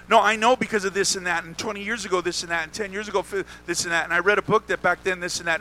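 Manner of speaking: hurried, lightly mocking blather; know-it-all objection. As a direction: mimic someone rattling off excuses.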